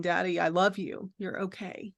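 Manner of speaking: soft, gentle reassurance to a frightened father; soothing. Retold or imitated. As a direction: daughter hugging her father, softly reassuring. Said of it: "I'm saying".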